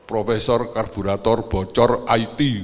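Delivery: mock proud boast. Mocking a proud parent's boast.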